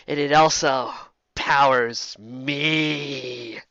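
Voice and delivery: slow, gloating sorceress; lightly voiced evil enchantress gloating; villain monologue. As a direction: savor each boast.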